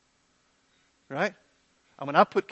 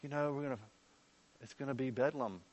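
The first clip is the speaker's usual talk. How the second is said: mock worried objector; 6 dB quieter than usual. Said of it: "questions that come up about".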